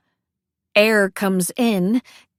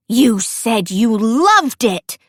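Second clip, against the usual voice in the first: louder, slow, hammed-up shock; stage-play disbelief; theatrical gasp; 5 dB louder, slower than usual. Cece reacting to Elsie's confession, hammed-up shocked. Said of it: "She gasps like this is a theater play".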